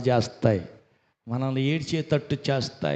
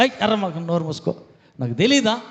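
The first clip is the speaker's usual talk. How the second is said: angry husband; 4 semitones higher, 4 dB louder, faster than usual. Retold or imitated. Husband snapping at wife in story.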